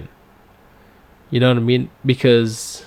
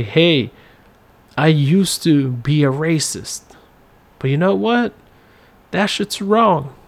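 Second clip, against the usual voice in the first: a light put-on Southern accent, pitched higher at the end; mock Southern accent; 3 semitones higher than usual. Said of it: "make that sound like a Southern accent".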